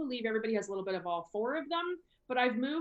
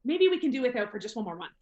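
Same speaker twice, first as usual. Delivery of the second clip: lightly acted hedging, higher pitched; reluctant money saver; 3 semitones higher, 3 dB louder than usual. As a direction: gently talk yourself out of buying. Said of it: "they're very like".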